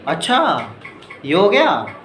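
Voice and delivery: acting amazed at a friend's sudden wedding news; mock astonishment, rising; surprised. Shown as a demonstration. Teacher acting out a friend's surprise, amazed. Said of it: "ऐसे बोलते हैं ना एकदम आश्चर्य से".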